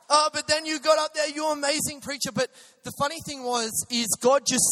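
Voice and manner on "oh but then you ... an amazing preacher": hint of Sri Lankan accent. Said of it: "I can't do any accent".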